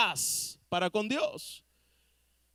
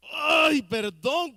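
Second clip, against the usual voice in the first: put-on high, loud whiny "Ay, perdón" like a sulky kid; mock a pouting child forced to apologise; preacher imitating a sulky child's forced apology; grudging child; 4 semitones higher, 5 dB louder, much slower than usual.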